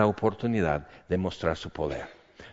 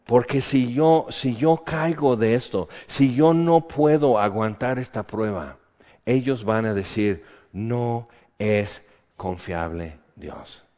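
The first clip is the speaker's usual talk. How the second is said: pleading prayer. Retold or imitated. Preacher retelling his prayer under trial, earnest plea. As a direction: beg God to hold you up. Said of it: "y digo".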